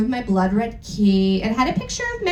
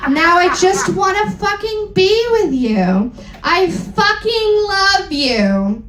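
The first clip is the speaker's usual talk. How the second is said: shouting. Acted. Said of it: "he shouted sadly".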